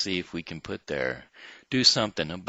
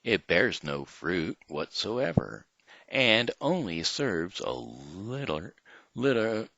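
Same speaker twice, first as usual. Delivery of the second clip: story reading. Acted. Reads fable to kids.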